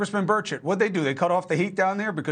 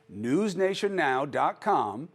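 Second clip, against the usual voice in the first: slower, spelling out news nation now dot com; slow repeat; slower than usual. Shown as a demonstration. Host slowly repeats the website address for viewers. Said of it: "Please go to news nation now dot com".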